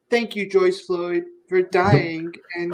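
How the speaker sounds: hammed-up boozy gratitude breaking into chuckles; lightly slurred mock-grateful impression; drunk Pelosi mockery. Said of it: "completely drunk off of a box wine".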